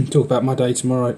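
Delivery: sounds like on helium. Real, not acted. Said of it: "I sound like I'm on helium".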